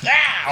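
brief imitation of a frazzled yell; scattered yell. Describing a friend all over the place, scattered. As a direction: let out a loose, chaotic "ah".

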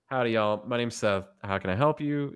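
friendly Southern-accent help desk greeting. Shown as a demonstration. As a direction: greet the caller with a light Southern twang. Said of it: "I'll bring the accents".

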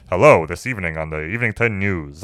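lightly imitated bland news anchor; white-bread, no-region newsreader delivery; a hint of generic TV newscaster; plain newscaster voice. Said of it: "white bread ass voice".

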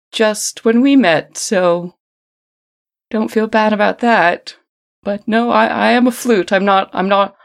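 sing-songy flute voice. Acted. Flute character keeps talking.

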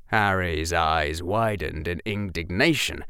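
usual speaking voice

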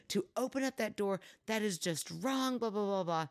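imitating a stern telling-off, only mildly cross; retold tirade. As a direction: rattle off the end of a parent's lecture. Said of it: "Finally done with my tirade".

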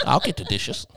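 high, soft, meek yes-ma'am voice; timid husband promising to do the dishes. Retold or imitated. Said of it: "be like".

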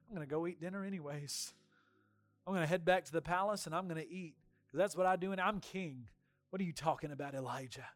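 fast, soft dismissive Ahab; dismissive king. Retold or imitated. Ahab brushing off Elijah, a hint of scornful king. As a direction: shrug him off, hurrying to dinner.

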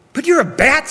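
high-pitched, indignant protest; high, alarmed accusation; accusing child. A narrator's reading. Frightened child confronts the bat.

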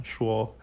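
说 held level in the first tone. Shown as a demonstration. Teacher shows learners the tone of 说, level first tone. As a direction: keep 说 on one even tone. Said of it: "tone number one".

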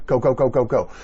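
quick loud hurry-up chant; urging on. Acted. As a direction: push the crowd to move now.

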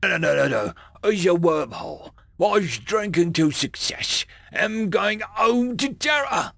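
high, far-off alien voice; excited creature voice. Acted. Drunk alien creature speaking.

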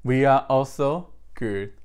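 loud, emphatic praise refrain; congregational praise call. Real, not acted. Preacher opening the service to the congregation, loud praise call. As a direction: proclaim it loudly to the congregation.

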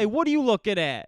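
tough guy challenge. Retold or imitated. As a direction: square up like a bar tough. Voices a tough guy confronting.

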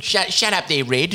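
mock sidekick retort.

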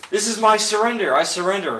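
high, loud cry of surrender; mock surrender. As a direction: call out a playful, hammed-up plea. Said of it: "You're yelling for help".

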